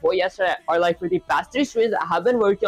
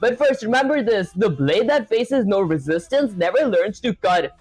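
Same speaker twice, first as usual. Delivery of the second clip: lightly voiced proud martial arts master; boastful sensei speech, hammed lightly; dramatic sensei. Reads AI sensei reply dramatically.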